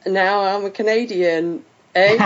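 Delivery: slow, put-on Canadian accent; jokey attempt at sounding Canadian. Shown as a demonstration. British host demonstrating for Matt a Canadian accent. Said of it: "I can also do a Canadian accent".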